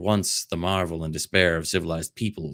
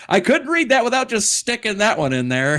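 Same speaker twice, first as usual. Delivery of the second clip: laughing; 6 dB louder, faster than usual. Real, not acted. Laughing explanation after joke.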